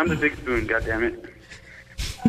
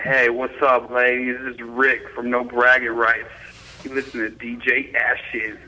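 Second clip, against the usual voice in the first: a hint of a smooth come-on, slower; laid-back ladies' man radio drop; lightly Ron Jeremy-ish shout-out; slower than usual. Shown as a demonstration. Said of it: "almost Ron Jeremy-ish".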